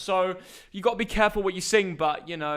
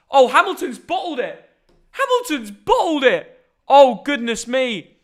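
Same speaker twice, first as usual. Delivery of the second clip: surprised; 4 semitones higher, 4 dB louder than usual. Real, not acted. Reacting to Hamilton on F1.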